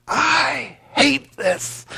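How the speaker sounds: drawn-out, high mock scream; acted furious outburst. Meditator's inner reaction to awful music, hammed-up furious yell. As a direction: yell it slowly, hammed-up loathing.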